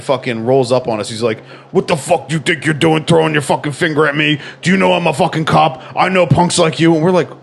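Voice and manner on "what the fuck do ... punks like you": mildly raised, aggressive cop rant; angry cop. Retold or imitated. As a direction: imitate a cop tearing into some kids. Cop confronting kids in retold story.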